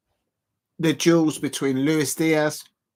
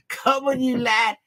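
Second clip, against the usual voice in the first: mock Scouse accent; 10 semitones higher than usual. Vlogger imitating Liverpool fans cheering their lads, in a hammed-up Scouse accent. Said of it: "that's what the Liverpool fans say".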